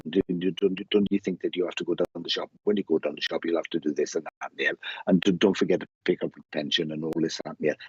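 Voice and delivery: rattling on like a chattering lady; ten to the dozen. Retold or imitated. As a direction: imitate a non-stop stream of instructions. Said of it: "she would talk like this".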